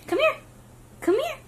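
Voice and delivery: sing-song it up high to lure him over. Real, not acted. Coaxing the baby to crawl over.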